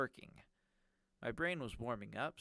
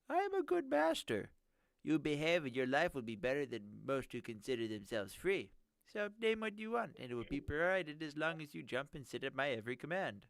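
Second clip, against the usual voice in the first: nerdy villain voice; 4 semitones higher, 3 dB louder than usual. Acted. Villain promising as master.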